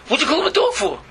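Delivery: high indignant protest; indignant dog. Acted. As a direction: complain like a wounded dog.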